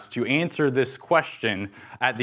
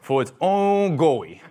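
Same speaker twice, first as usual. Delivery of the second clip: put-on toddler's answer; 4 semitones higher than usual. Dad voicing his daughter's favorite catechism answer, childlike and high. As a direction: recite it like a proud small child. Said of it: "this is, like, my favorite part".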